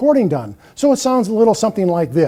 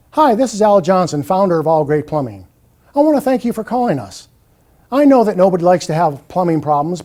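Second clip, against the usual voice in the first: on-hold ad read. Shown as a demonstration. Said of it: "Here's an on-hold message".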